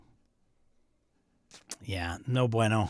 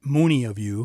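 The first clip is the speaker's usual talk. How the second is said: Wisconsin "many" said like "moony", loud; Wisconsin accent; 7 dB louder than usual. Shown as a demonstration. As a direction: lean hard on the rounded Wisconsin vowel. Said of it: "that's my Wisconsin accent".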